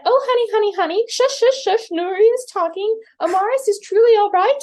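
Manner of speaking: retelling the mother's hush; mother hushing baby. Retold or imitated. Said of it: "well, she said".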